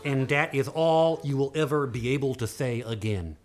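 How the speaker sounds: lightly voiced cross dwarf laying a curse; angry dwarf. Dwarf cursing the girls over his ruined beard, mildly hammed-up anger. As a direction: start indignant, sink into a grim pronouncement.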